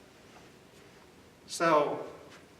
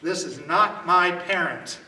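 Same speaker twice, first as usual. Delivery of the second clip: loud demo yell for help; 6 dB louder than usual. Shown as a demonstration. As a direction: call out so witnesses turn around. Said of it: "things that you yell to create witnesses".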